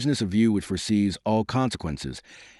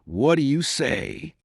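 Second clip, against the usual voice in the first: slow, stunned and high; barely believing what he hears; horrified; 6 semitones higher, much slower than usual. A narrator's reading. Aghast Fouquet asks.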